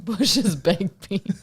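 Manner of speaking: very slow, stretched Texas twang; mock Texas drawl. Co-host teasing him about his tired drawl, mock Texas drawl. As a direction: draw it out like a teasing Texan. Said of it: "that drawl comes out".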